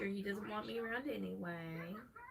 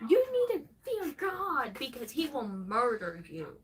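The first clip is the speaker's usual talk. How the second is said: mocking preachy Christian; 4 semitones higher, 9 dB louder than usual. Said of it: "it's very much like".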